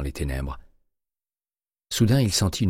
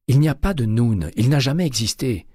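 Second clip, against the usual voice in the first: higher and louder, hammering pas and jamais; insist, she must finally get it; emphatic exclaim; 8 semitones higher, 5 dB louder than usual. A narrator's reading. Terry insisting to Winston that Noon never existed.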